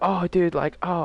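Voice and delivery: high, loud, excited mock friend; friend's voice. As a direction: play the overeager buddy caught out. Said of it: "And he was like".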